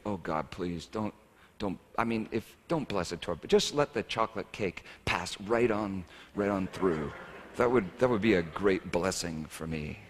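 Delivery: hushed mock prayer under the breath; prayed under breath. Pastor's secret prayer at the family table, softly muttered. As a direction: mutter a private prayer, lightly. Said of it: "under my breath, I usually pray".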